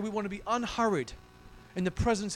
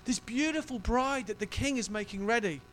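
tender voice of God; 3 semitones higher than usual. Retold or imitated. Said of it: "I feel God saying".

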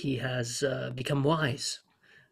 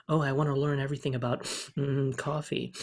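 Goldblum impression; 4 dB quieter than usual. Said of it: "be like".

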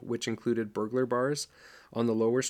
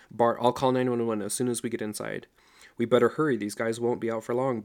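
urgent; 5 dB louder than usual. Acted. Urgent call after fight.

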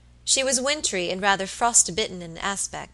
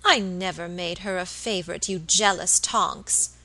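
reproachful; 3 dB louder than usual. Acted. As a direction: scold her gently for her jealousy. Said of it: "Missus Vincent answered reproachfully".

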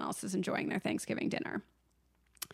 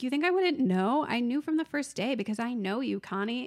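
mock furious husband; 4 semitones higher than usual. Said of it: "he's like".

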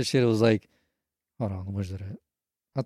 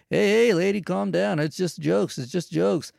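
lightly imitated breezy comedian, higher pitch; chipper comic; 6 semitones higher, slower than usual. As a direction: cheerfully brush off a complaint. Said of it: "he's real chipper".

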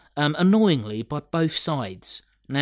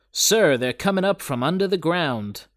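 soldier voice; 5 semitones higher, 3 dB louder than usual. Retold or imitated. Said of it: "that's a good line".

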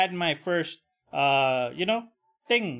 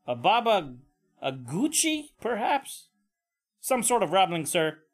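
paramedic voice; 5 semitones higher than usual. Pretend. Second paramedic answering his boss.

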